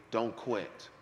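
soft, low "Don't quit"; quiet voice of the Lord. Retold or imitated. The Lord telling him at the locker room, soft. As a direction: say it gently, almost under the breath.

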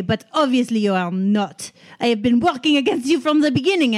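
angry outburst. Acted. Marcel's angry outburst monologue.

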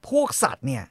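normal talking voice

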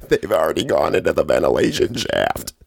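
low, put-on vaguely Japanese accent; hammed-up Japanese-accented movie villain; mock Japanese accent. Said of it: "discuss the racist-ass accents".

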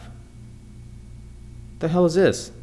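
whispered to himself. Real, not acted. Fumbling with the phone app.

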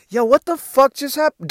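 high, disbelieving question; stunned. Retold or imitated. To friend leaving the champagne room, high stunned. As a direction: gape at the wrecked friend.

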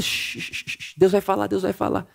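whispered shushing, barely voiced; hushed whisper. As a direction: shush the room and whisper that God will speak. Crowd hushing each other.

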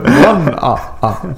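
high mock vampire counting; Dracula. Mocking the singer as a vampire, hammed-up Dracula. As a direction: count with a hammy vampire laugh. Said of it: "she turns into Dracula".

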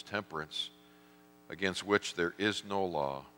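closing prayer. Acted.

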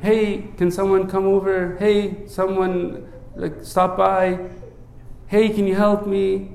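offhand, unbothered request for help; mock lazy call for help; casual half-hearted ask. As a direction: ask like someone dropping by is optional. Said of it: "He doesn't just say".

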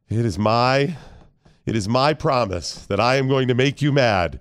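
slow, measured pledge; mock-solemn vow. Dad promising to make son mad, mock-solemn vow. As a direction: declare it gravely with deliberate pauses.

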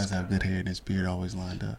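hushed whisper into the mic. Real, not acted. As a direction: keep it to a whisper. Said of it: "whisper into the mic".

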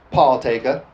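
"Paul taker" in a light Southern drawl. Shown as a demonstration. Preacher playing on partaker for his congregation, light Southern drawl. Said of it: "I like to say it with a southern drawl".

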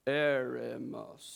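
"eremos" slow, low and all on one tone; really slow monotone. Shown as a demonstration. Preacher imitating how Google says it, really slow monotone. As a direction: drag out "eremos" low and level. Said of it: "it goes really slow".

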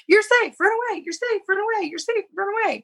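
high, bouncy mock host callout; high singsong. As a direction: rattle off names in a high singsong. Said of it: "everybody just runs off stage".

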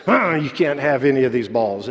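mock growl from a possessive little boy; imitated child's growl. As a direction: growl it like a kid guarding his toys. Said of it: "finally he began growling".

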